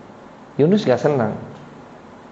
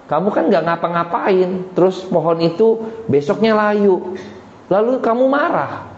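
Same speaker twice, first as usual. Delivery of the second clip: lightly acted, higher-pitched reproach; God reproving Yunus; 6 semitones higher than usual. God questions Yunus over the plant, mild high-pitched reproof. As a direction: reason with him, pitch climbing toward the end. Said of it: "Tuhan bilang".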